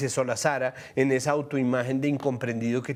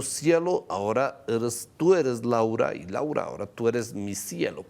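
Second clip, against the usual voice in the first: mock Petro voice; 6 semitones lower than usual. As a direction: put on his voice to ridicule the reshuffle. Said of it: "es como que Petro hubiera dicho".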